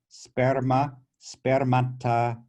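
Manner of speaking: "sperma, spermata" stressed on the opening SPER; first-syllable stress. Shown as a demonstration. Teacher showing students where the accent sits, first-syllable stress on "sperma, spermata". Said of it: "from the first syllable to the second".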